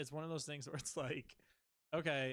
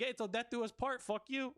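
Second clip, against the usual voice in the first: mock telling-off; 9 semitones higher, 4 dB louder than usual. Telling off ex-wife.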